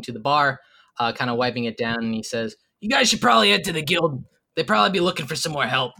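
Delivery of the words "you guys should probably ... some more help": barkeep voice. Acted. Barkeep urging the party to the guild, brisk. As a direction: hurry them along like a busy barman.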